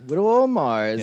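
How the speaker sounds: "Whittle" begins with a w, not the l of little; l swapped for w in "Whittle"; says w for l. Pretend. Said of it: "All L's are W today".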